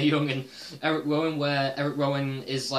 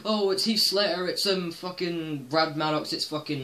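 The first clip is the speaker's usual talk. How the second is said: mocking clueless fans; 5 semitones higher than usual. Mimicking online commenters guessing wildly, higher mock excitement. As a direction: rattle off names like a clueless commenter. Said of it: "they're just listing names off the bat".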